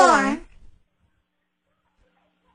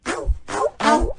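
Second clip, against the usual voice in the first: playful puppy barks; barking; 2 semitones higher than usual. Pretend. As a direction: bark like an excited puppy. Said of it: "Agora eu sou um cachorrinho excitado".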